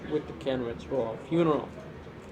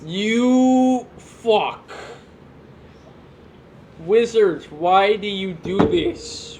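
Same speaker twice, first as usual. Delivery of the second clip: a touch of a hammy tantrum; mock rant; 3 dB louder, much slower than usual. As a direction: complain like a cranky old man. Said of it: "Ian, take your medication".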